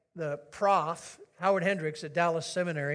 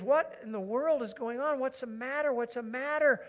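bewildered husband; 5 semitones higher than usual. Acted. Husband bewildered by his sobbing wife.

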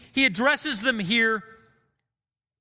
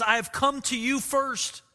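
a touch of mourning, slowing on the last line; mourning plea; 2 semitones higher than usual. Retold or imitated. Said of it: "Jesus is just mourning in this moment".

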